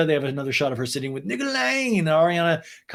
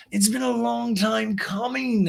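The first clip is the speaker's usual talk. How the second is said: high, slow put-on voice; Lisa; 9 semitones higher, slower than usual. Recapper playing Lisa confiding in Ariana, high drawn-out imitation. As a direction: draw it out in an exaggerated high pitch.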